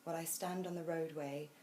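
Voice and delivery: measured, hushed poetry recital; poem reading. A narrator's reading. Host reading a rather beautiful poem to guests, calm measured recital. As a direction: read it gently, pausing after each phrase.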